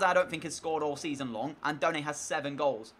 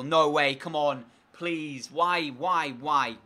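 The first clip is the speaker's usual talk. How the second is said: dismayed cry; 5 dB louder, much slower than usual. Real, not acted. His player gets injured.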